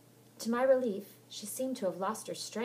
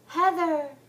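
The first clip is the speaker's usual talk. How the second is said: loud high distant call; ghostly cry; 9 semitones higher, 13 dB louder than usual. Acted. Helen's chilling cry from the rain. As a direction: call her from the water.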